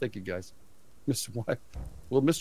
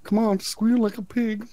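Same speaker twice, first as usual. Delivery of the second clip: slow, high hammed-up Southern drawl; mock backwoods accent, badly done on purpose; Southern hillbilly accent; 12 semitones higher, 5 dB louder, slower than usual. Quoting the Deliverance movie villain in a mock Southern accent. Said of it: "I can't do that accent good enough".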